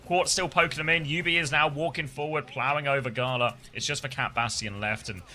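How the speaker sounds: lively play-by-play, rising with the action; esports caster. Acted. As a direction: call the match like a live caster. Casting the match live.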